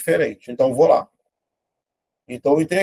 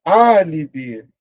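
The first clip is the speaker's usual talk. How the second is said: word drawn out slowly, syllable by syllable; slow dictation; 2 semitones higher, 4 dB louder, much slower than usual. Shown as a demonstration. Teacher slowly reading out a quiz word. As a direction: spell it out slowly for the class. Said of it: "Separei aqui".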